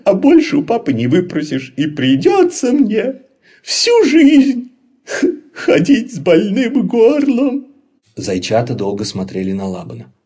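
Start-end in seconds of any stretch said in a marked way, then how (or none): 0.1-7.7 high, loud hammed-up blubbering; fake crying. Laban faking tears to the bunnies, high hammed-up sobbing. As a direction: sob theatrically, pretending to cry. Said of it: "Лабан притворился, что плачет".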